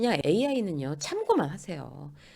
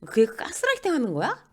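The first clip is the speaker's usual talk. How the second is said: higher-pitched, challenging question; accusing; 7 semitones higher, 4 dB louder than usual. Acted. One friend accuses another with psychology jargon, accusing. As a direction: throw it out as a mock accusation.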